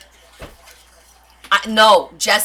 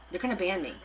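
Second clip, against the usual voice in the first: muttered worry; 3 semitones lower, 10 dB quieter, faster than usual. Real, not acted.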